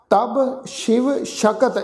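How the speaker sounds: ਸ਼ਿਵ and ਸ਼ਕਤ both with a clear sh; sh pronunciation. Shown as a demonstration. Teacher shows the class ਸ਼ਿਵ ਸ਼ਕਤ with sh. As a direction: say ਸ਼ਕਤ "shakat", not "shakti". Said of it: "ਸੱਸੇ ਪੈਰ ਵਿੱਚ ਬਿੰਦੀ ਲਗਾ ਕੇ ਸ਼ਕਤ".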